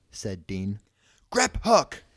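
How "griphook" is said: very high, loud summons; bellowing. A narrator's reading. Harry summoning the cart goblin, bellowing. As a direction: holler the name to call him. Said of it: "Harry bellowed".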